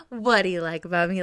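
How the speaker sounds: a light hint of smug, cute flirting; smug and flirty. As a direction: tease him a little, playfully. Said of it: "Like, so, like, smug and cute".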